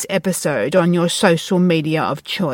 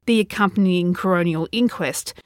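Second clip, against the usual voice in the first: suspenseful crime show narrator. Acted. True crime podcast narration.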